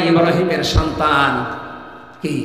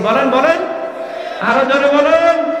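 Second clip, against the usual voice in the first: higher, rising call for a response; urging the crowd; 5 semitones higher than usual. Real, not acted. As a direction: call out to rouse the congregation. Urging the congregation to respond louder.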